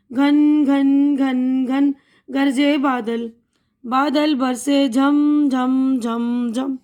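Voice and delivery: put-on slow, sing-song children's poem; poem recitation. Shown as a demonstration. Teacher reciting a rain poem to children, slow and rhythmic. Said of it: "तो मैं पढ़ रही हूँ".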